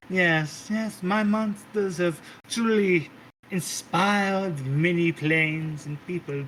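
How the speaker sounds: a hint of a doting, theatrical matriarch calling everyone darling; sweet-talking diva hostess, lightly played; lightly voiced grand Mother. GM voices Mother greeting guest.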